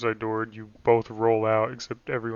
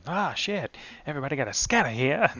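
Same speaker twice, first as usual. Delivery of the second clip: put-on quick, raised old-movie gangster; thirties transatlantic voice; 3 semitones higher than usual. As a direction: rattle it off like a 1930s hood. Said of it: "Like thirties".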